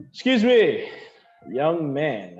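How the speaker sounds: high, flirty call to the waiter.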